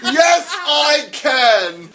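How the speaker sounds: laughing. Pretend. Mock-shouted through laughter.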